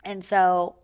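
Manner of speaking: normal talking voice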